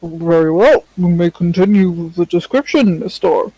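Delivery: judge voice. Acted. Judge telling the court to continue, judge voice. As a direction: play a judge talking through a mouthful. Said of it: "The judge voice sounds like speaking with a mouth".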